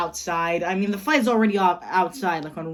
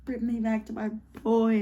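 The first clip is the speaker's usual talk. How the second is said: mild mock yell; 4 semitones higher than usual. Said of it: "Old Deathstroke just starts yelling".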